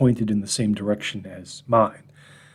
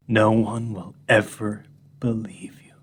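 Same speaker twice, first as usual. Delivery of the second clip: sing-song dog voice; 3 semitones lower than usual. Retold or imitated. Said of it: "In a sort of sing-song type of way".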